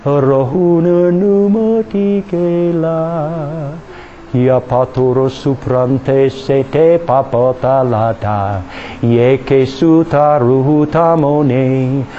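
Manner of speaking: slow flowing glossolalia; speaking in tongues. Real, not acted. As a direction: let the tongue run freely. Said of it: "the tongue go".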